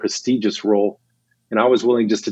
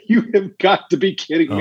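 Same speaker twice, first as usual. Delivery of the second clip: disbelief; 8 semitones higher than usual. Retold or imitated. Boss reacts in disbelief.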